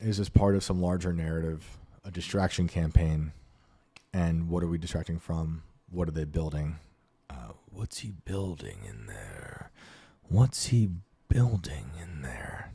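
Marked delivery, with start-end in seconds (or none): 7.7-12.7 slow, drawn-out, swooping, sing-song put-on voice. Asking what they are building, done as a quick impression: a gravelly singer's voice. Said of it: "my impression of a singer for the day".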